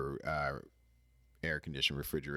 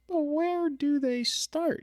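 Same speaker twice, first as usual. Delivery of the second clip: high, loud and slow, baffled; baffled high squeak; 8 dB louder, slower than usual. Retold or imitated. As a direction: squeak it out in disbelief. Puzzled inner thought.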